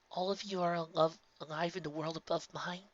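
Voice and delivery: soft hushed question; whispered. A narrator's reading. Twilight whispers to her friends behind the door, hushed. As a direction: breathe it out quietly. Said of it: "she whispered".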